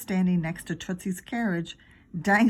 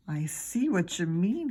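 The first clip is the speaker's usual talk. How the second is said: slow, sly whisper; Alex whispering back as he gets the plan; slower than usual. Acted. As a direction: breathe it as the idea lands. Friend catches on secretly.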